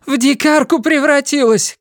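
high angry woman's cry; Linda shouting. A narrator's reading. Linda shouts her despair at her son. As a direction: shout it bitterly. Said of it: "кричала она".

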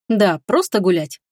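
slow, patient reassurance. Acted. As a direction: say it patiently, gently. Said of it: "терпеливо повторил принц".

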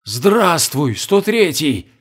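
excited. Acted. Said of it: "взволнованно проговорил он".

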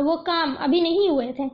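ordinary delivery

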